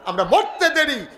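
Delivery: surging, emphatic sermon delivery; impassioned preaching climax. Real, not acted. Preacher promising the congregation a grave of paradise, surging and emphatic. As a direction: build in bursts to a rousing climax. Climax of exhortation, crowd responds.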